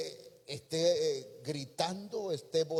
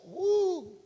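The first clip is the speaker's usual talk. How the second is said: a high loud "uh!" of commotion; shrill mock whoop; 13 semitones higher, 5 dB louder than usual. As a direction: whoop it up like spreading gossip. Exclamación de revuelo. (¡uh! alto y fuerte de alboroto)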